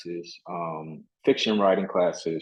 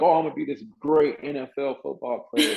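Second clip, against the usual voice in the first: higher, lightly mock-grand boast; amused self-mockery; 7 semitones higher than usual. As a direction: poke fun at your younger self's big dream. Mocking his old big dream.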